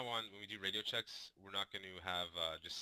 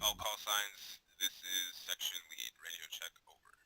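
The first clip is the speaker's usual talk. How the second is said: crackly military radio; 3 dB louder, slower than usual. Shown as a demonstration. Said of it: "it'll be, um".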